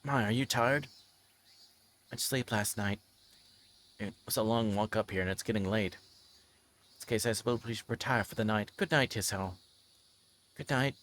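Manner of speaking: steady reading-aloud voice with light character voices; story narration. Acted. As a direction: read the scene out like a novel. Reads visual novel scene aloud.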